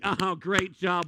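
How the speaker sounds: drawn-out, mocking "Oh, great job"; slow sarcastic praise. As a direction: stretch "great job" slowly, mocking applause. Crowd claps after a plate drops.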